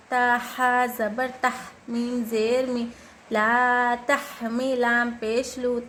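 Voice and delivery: slow, measured chant of letters and syllables; Quran spelling recitation. Shown as a demonstration. Teacher spelling words for learners, slow recitation. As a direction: sound out each syllable, holding long vowels.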